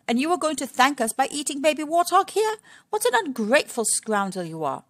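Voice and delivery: mild mock indignation; Missus Warthog.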